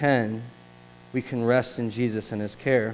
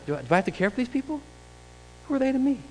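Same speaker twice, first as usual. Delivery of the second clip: high, quick, whining protest; reluctant question; 10 semitones higher, 5 dB quieter, faster than usual. Retold or imitated. Reluctant listener questioning the duty, high whine. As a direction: push back like it's not your problem.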